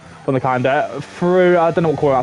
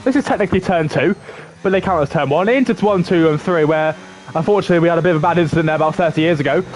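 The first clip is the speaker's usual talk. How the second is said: live play-by-play. Acted. Commentator calling the lap on stream, lively play-by-play. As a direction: lively race commentary, rising on the corner names.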